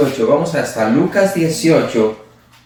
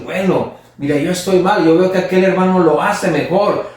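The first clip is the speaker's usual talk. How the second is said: lightly raised, earnest resolve; mildly determined to do better; a believer resolving to follow a faithful brother's example; resolved, hopeful; 4 semitones higher than usual. Retold or imitated. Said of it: "lo tomamos como ejemplo y decir".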